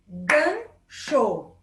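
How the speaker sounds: gancho said syllable by syllable, gan-cho; split into syllables. Shown as a demonstration. Teacher clapping out syllables of gancho for children. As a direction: clap out gancho in two beats. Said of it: "quando a gente bate palma?".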